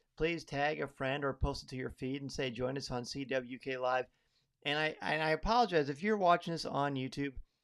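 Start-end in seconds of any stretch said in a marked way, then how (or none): none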